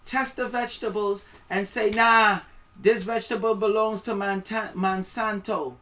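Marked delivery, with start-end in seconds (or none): 1.9-5.8 loud, high, aggressive enforcer shouting; mock official demand. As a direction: bark it like a thug seizing your food. Acted official seizing your vegetables.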